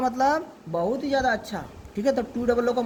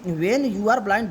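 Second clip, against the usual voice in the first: very slow, each word apart; slow reading; much slower than usual. Shown as a demonstration. Teacher slowly rereading a phrase to the pupil. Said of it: "इसका मतलब देखो क्या कह रहा है".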